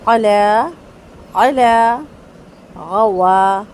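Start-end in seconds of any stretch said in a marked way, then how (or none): 0.1-2.0 علا with a quick short vowel; one-beat zabar. Shown as a demonstration. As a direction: keep the zabar one count. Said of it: "ایک second زبر اور دو second". (ایک second کا زبر)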